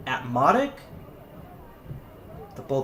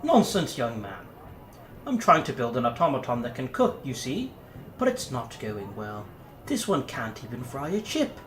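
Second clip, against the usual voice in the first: upper-class English. Acted. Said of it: "upper-class English tones".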